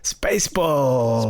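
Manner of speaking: slow dramatic whisper. Acted. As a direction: breathe the title out slowly, like a secret. Whispered title reveal.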